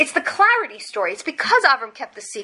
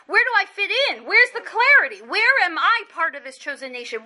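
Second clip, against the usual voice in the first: retold anguished questioning; 4 semitones higher than usual. Left-out Sarah asks where she fits, lightly acted pleading.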